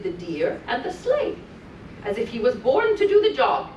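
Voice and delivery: put-on lilting read-aloud for small children; sing-song storytelling voice; storybook reading. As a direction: read it like a bedtime story to little ones. Reading continues.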